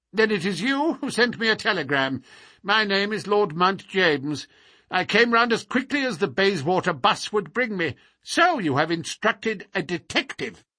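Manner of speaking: put-on high-pitched, fussy old man; impatient old man, pitched high; querulous old lord, testy. A narrator's reading. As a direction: announce yourself with crotchety self-importance.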